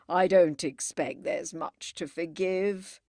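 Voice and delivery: lightly voiced gallant colonel. A narrator's reading. The departing Colonel reassures his hostess, mildly gallant. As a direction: say it as a courtly reassurance. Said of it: "the Colonel said gallantly".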